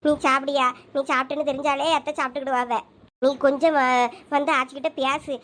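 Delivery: low, gentle coaxing of a grieving son; tender mother. Acted. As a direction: soothe him like a mother holding back tears. Mother coaxing tearful son to eat.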